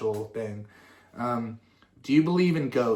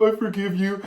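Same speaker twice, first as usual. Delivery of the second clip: put-on little kid forgiving; 8 semitones higher, 6 dB louder than usual.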